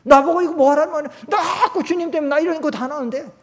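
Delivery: high, loud, rushed protest; Jeremiah complaining. Retold or imitated. Voicing Jeremiah protesting to God, loud exasperated complaint. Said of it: "에레미야 선지자도 그랬어요".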